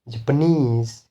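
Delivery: Japanese with NESE stressed; stress on suffix. Shown as a demonstration. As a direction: push the last syllable of Japanese. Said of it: "the stress will be on these suffixes".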